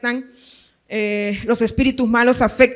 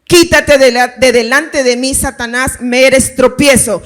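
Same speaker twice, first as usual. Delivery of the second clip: firm, emphatic quoted reprimand; deliberate rebuke with a forceful start; stern rebuke; 4 dB louder than usual. Acted. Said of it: "le reprende a Pedro diciéndole". (reprensión firme y enfática)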